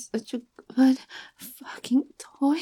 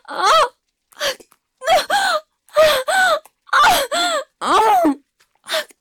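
much higher, much louder ecstatic cries; climax cry; 9 dB louder, slower than usual. Acted. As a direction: scream it out at the peak.

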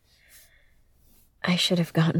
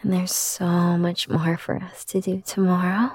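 put-on soothing a child. Comforting a child after a nightmare.

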